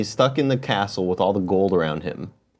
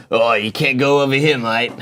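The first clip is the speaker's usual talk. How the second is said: mock Australian Putin. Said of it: "he's like".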